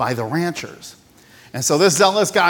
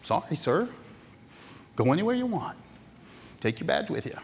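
meek rancher; 9 dB quieter than usual. Retold or imitated.

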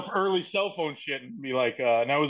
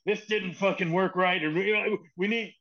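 mock pissed-off boss, pitched up; retold tirade, higher but not shouted; imitated angry rant; 4 semitones higher than usual. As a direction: lay into them, half in earnest. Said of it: "Why is he so pissed off".

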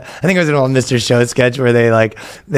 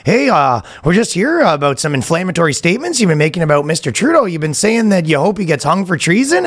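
higher mock Canadian accent; 5 semitones higher than usual. Officers at his door about inflammatory statements, Canadian accent. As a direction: politely complain in a put-on Canadian accent. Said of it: "the most Canadian interaction".

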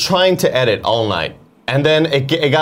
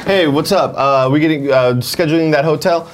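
imitating Tim; 2 semitones higher than usual. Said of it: "my name is Tim Geddes".

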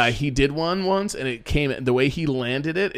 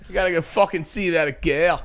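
Boston accent impression; 2 semitones higher than usual. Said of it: "you sound like Sheamus from W W E".

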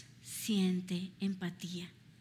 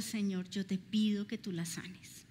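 softer, hushed plea to the Lord; retold husband's prayer, whispered; 4 semitones lower, 7 dB quieter than usual. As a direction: breathe the request almost silently.

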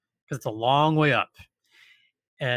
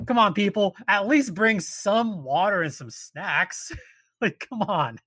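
scolding plea; 5 semitones higher than usual. Real, not acted. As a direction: plead with careless hikers, slowing down. Lecturing listeners to prepare.

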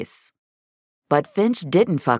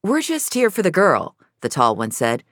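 nervous gunman; 7 semitones higher, 3 dB louder than usual. A narrator's reading.

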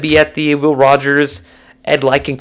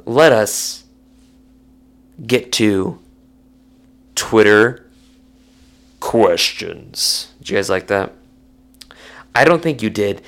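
deep voice; 6 semitones lower than usual. Real, not acted. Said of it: "my voice going deep".

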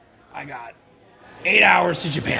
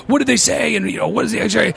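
higher, urgent questioning; alarmed dad; 6 semitones higher than usual. Retold or imitated. Dad firing questions at his sick son, alarmed. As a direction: press for answers in a raised pitch.

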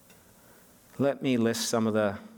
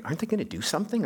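quick, higher mock complaint from other diners; mildly exasperated onlookers at the next table; impatient bystanders; 5 semitones higher, much faster than usual. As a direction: rattle it off like a nosy diner. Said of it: "others are looking like".

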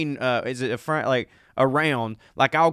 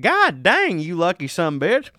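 mock jealous outburst; 4 semitones higher than usual. Real, not acted. Reacting to bowling PE credit.

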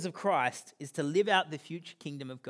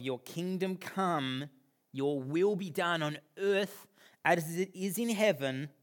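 prayerful recital; slower than usual. Acted. Quoting the prayer.

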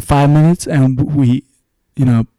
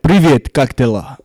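put-on greeting in a light Russian accent. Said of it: "that's my Russian accent".

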